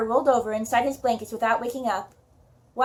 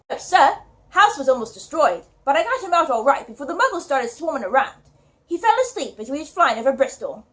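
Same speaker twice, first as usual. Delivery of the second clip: a lightly voiced West Country giant in a British accent; an amateur British accent for the big gamekeeper; British accent as Hagrid; 4 dB louder than usual. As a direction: speak as Hagrid with a gentle attempt at a British accent. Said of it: "my British accents".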